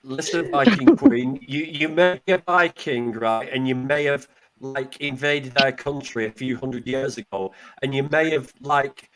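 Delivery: glitchy robotic connection audio; choppy robot voice over bad internet. Real, not acted. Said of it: "Why you sound like a robot?".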